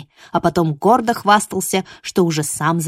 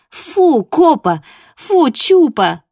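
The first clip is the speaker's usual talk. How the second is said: laughing protest; 8 semitones higher, 8 dB louder, much slower than usual. Acted. Fending off licking dogs.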